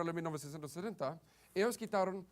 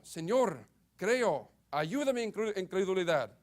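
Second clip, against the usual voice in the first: fervent, raised plea; crying out in scripture; 4 dB louder than usual. A narrator's reading. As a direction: read it as an urgent cry for help. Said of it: "clamando con lágrimas".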